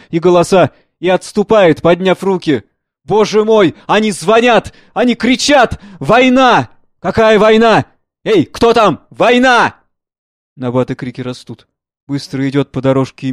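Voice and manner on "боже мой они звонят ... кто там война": higher, loud cry of horror; panicked cry. Acted. Old man hearing the war bells, crying out in panic. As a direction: scream out the alarm in terror.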